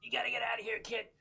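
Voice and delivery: yell. Acted. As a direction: call it out sharply to a child. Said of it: "I'm gonna yell to the kid".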